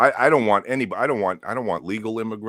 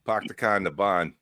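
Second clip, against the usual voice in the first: Boston accent test. Shown as a demonstration.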